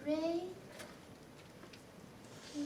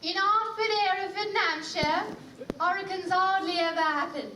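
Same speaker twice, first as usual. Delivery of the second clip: fast garbled Cockney version, every H dropped, lower; dropped H's Cockney; 3 semitones lower, 4 dB quieter, much faster than usual. Acted. Pupil fumbling the H drill, Cockney dropped H's. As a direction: rush it with no H at all. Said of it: "No, no, no".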